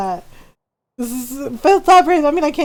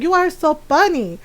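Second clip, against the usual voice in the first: put-on accented Filipino mom telling off her son; imitating scolding mom; 3 semitones higher than usual. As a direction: mimic a mother's stern, deliberate threat. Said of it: "she do my voice very well".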